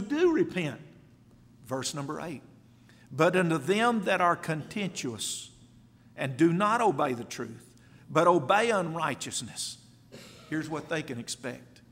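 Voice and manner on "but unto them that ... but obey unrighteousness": emphatic pulpit declamation; forceful scripture reading. Real, not acted. Preacher reading the warning to the contentious, forceful.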